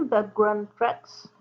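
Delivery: slow, careful English with a French accent; English accent attempt. Real, not acted. French tutorial host showing off an English term, careful English accent. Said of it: "Vous avez vu mon accent anglais formidable".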